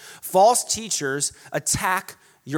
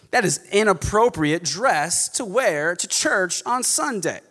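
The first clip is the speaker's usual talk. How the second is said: snobby legalist. Acted. False teacher judging churchgoers' clothes, snobby. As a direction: look down your nose at them. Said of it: "incredibly snobby and legalistic".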